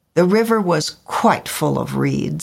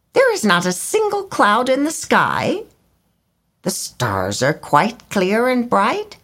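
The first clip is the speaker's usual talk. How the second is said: high fussy bird voice complaining; indignant swallow; 8 semitones higher than usual. A narrator's reading. Swallow grumbling at the rain, high and fussy. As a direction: grumble about the weather. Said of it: "he cried".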